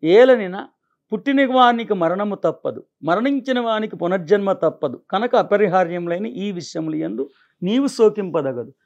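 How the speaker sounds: stately recital of a verse translation; formal verse recitation. Acted. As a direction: read the sacred verse out in full, measured phrases.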